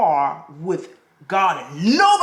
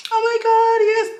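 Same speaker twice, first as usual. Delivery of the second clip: mild gasp; 5 dB louder than usual. Shown as a demonstration. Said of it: "I'm not talking".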